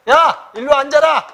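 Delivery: dismissive command. Shown as a demonstration. Teacher demonstrating the haera style, loud and dismissive. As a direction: bark it down at someone beneath you. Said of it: "요거 헤라체는".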